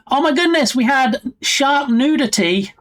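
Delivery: a sudden high, excited burst that slows on the second line; real amused delight at a chat message; delighted surprise. Real, not acted. Streamer laughing off a funny chat line, excited.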